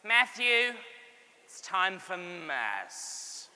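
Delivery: imitating mum, slow drawn-out call; a mock weary mum's summons; lightly voiced mum calling her son; mum calling to mass. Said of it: "this is how I heard her voice".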